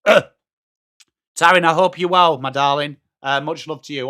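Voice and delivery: a hint of a crooner's hello; low-key smooth welcome; smooth greeting. Greets the same viewer again.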